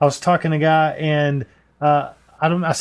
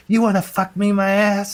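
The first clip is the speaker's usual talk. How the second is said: higher-pitched mock Indian or Middle Eastern accent; put-on Middle Eastern or Indian caller accent, higher; imitated Indian-or-Middle-Eastern accent; 6 semitones higher than usual. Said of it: "either Middle Eastern or Indian".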